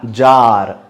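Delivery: जार with the आ drawn out long. Shown as a demonstration. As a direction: stretch the आ in जार. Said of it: "आ खींच के आता है".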